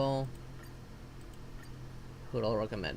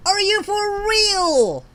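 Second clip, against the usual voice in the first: loud, higher, drawn-out outrage; furious outburst; 8 semitones higher, 6 dB louder, slower than usual. Real, not acted. Gamer yelling at a bad gacha pull, in real fury. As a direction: let the disbelief explode at the screen.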